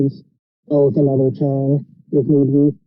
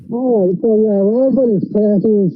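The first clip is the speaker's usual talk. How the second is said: underwater; 4 semitones higher than usual. Real, not acted. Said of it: "It sounds like you're underwater".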